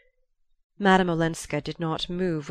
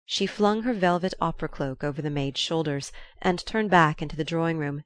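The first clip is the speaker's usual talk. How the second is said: ordinary delivery, nothing marked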